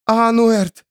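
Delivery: high frantic call of a name; desperate calling. Acted. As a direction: shout his name to wake him. Still unresponsive.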